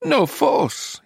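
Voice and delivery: very high, breathless voice. A narrator's reading. Nero giggles and refuses to help, high and breathless. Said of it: "he said breathlessly".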